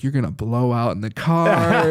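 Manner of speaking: playful mock warning; joking. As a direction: tease with a comic prediction, then break into laughter. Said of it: "I'm just joking".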